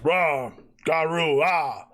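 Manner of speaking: orc gibberish. Acted. GM voices orc gibberish shouting.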